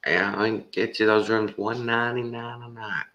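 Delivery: high, bragging sales-pitch voice; bragging salesman. Retold or imitated. Salesman bragging to the caller on the phone, high and pushy. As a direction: brag the price like a pushy salesman. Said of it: "he starts bragging".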